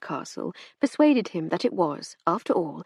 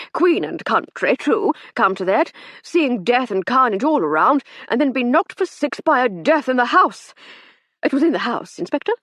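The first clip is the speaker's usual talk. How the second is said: put-on pompous old captain; 5 semitones higher, 7 dB louder than usual. Captain's rambling speech.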